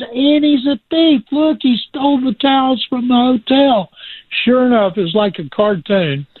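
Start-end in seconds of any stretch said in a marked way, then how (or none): 0.0-3.9 mocking accusation. Lad accuses the agent.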